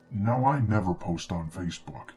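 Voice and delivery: ordinary delivery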